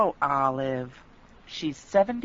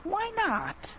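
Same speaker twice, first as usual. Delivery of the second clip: surprised; 4 dB quieter than usual. Acted. Friend puzzled by Olive's secrecy.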